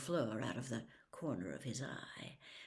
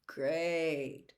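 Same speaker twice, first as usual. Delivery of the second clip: dully. Acted. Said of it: "said Harry dully".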